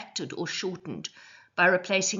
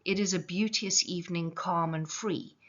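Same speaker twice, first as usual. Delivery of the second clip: poem reading. Shown as a demonstration. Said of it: "the first line of the poem is".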